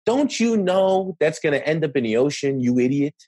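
mock scolding of an ignorant person; hammed-up know-it-all sneer; condescending tone. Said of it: "But you can hear it in the tone of voice".

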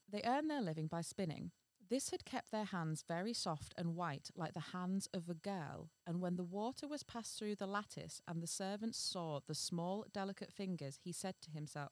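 measured fairy-tale reading; story narration. A narrator's reading. Reading a fairy tale to the co-host, measured narration. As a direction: read it out as a storyteller.

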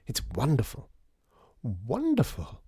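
lightly voiced, delighted lady visitor; gushing lady customer. Lady customer admiring the shop, lightly gushing. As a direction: savour it like a charmed customer.

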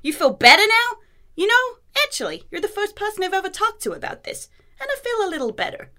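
put-on Queen's accent. Reading an old woman's monologue to her co-host, Queen's accent. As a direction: do the Queen's accent, high and grand. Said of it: "I'm gonna attempt a Queen's accent here".

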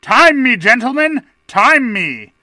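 loud, commanding call to the room. A narrator's reading. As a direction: bellow it to the gallery.

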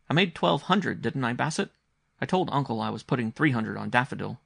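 put-on high-pitched, assured child voice; earnest young boy. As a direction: report winnings as a serious little boy. Boy reports his winnings.

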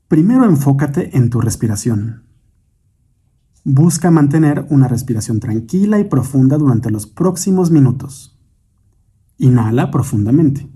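measured meditation guide, long pauses between instructions; guided meditation. Acted. Guide leads listeners in breathing and imagining light, guided meditation. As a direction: guide the listener unhurriedly through breath and imagery.

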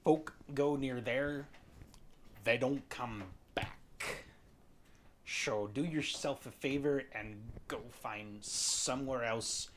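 lightly voiced grizzled old fisherman; gruff old fisherman. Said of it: "Thank you, Sean Connery".

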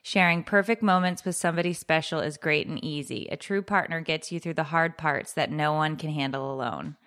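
low, even read of a social post; reading aloud. Acted.

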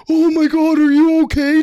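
high, fussing mock concern. Teammates fussing over the fallen player, high mock concern. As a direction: ham up the worried teammates.

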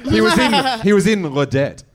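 loud put-on French accent. Riffing on a fellow comic's French role, loud French accent. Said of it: "Very good French accent".

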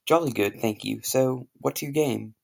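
put-on posh British accent. A posh Englishman greets an American, in a British accent. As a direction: play the proper English gent. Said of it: "I have a very good British accent".

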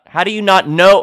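fired-up disbelief; exasperated. Real, not acted. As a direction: push the question up in annoyance. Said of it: "I'm getting pissed off".

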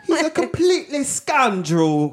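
high, hammed-up British accent; mock British accent. Calling him a scoundrel, mock British accent.

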